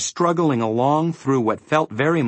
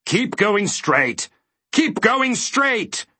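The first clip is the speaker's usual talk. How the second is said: high, slow, drawn-out directions; counseling call; 8 semitones higher, much slower than usual. A narrator's reading. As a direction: call it slowly, rising higher on the repeat. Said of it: "counseled the voice".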